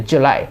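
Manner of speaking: জুলাই with weight on "LAI"; stress on L. Shown as a demonstration. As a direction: press the second syllable of জুলাই. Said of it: "এল এর উপরে pressure দিয়ে". (জুলাই-এর "লাই"-এ জোর)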